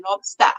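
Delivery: "lobster" with an open "stah" ending; R dropped. Shown as a demonstration. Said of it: "You've gotta say".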